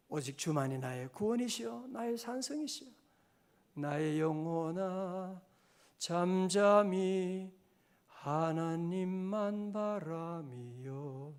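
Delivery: prayerful, very slow recitation. Real, not acted. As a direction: let each phrase settle slowly. Slow meditative psalm recital.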